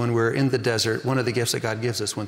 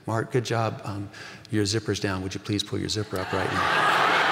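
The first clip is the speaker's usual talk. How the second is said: a soft, quiet, gentle dad quietly warning his son; gentle fatherly hush; 5 semitones lower, 3 dB quieter than usual. Retold or imitated. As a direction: tell him softly so nobody else hears. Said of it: "he said very gently".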